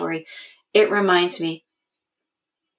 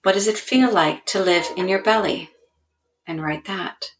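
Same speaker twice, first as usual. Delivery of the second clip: guided journaling prompt. Shown as a demonstration. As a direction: lead listeners gently through the body.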